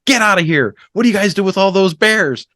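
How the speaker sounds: high, incredulous What? then excited question; mock disbelief. Retelling his shock to the Canadian couple, high and incredulous. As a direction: play up astonishment at the Canadians.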